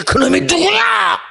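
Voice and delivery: high, loud, slow demand; high shouted challenge. Acted. Preacher shouts the question at the evil thought. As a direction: yell it out high at the unseen one.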